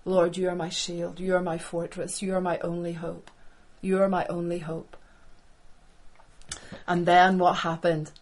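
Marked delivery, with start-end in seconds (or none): 0.0-5.0 low, hushed, understated plea to God; a touch of weary desperation, no real sobbing; tearful prayer. Acted. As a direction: pray it softly, mildly broken. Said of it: "cried and wept before the Lord".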